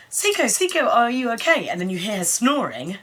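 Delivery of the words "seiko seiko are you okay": high worried calling of a friend's name; mock worried call; anxious call. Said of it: "and she goes".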